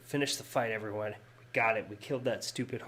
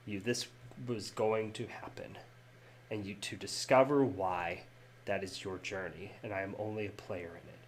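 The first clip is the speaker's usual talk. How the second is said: sorrowful Sonny. Acted. GM voices grieving Sonny.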